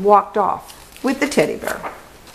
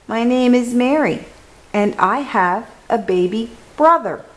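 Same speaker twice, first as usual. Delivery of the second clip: just slightly louder, still small; a little louder; 4 semitones higher than usual. Acted. Mary tries again for her teacher, a little louder. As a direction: push the voice up a touch. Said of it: "just a little louder".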